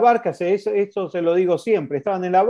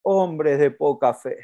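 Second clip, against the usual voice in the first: calm rebuke; 3 semitones lower, slower than usual. Retold or imitated. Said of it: "y dijo".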